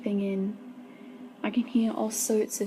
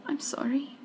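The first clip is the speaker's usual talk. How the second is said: whispered sorry, higher; soft apology; 5 semitones higher than usual. A narrator's reading. Girl apologizing to her angry brother, in a soft whisper. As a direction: breathe the apology, barely voiced. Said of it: "I apologize softly".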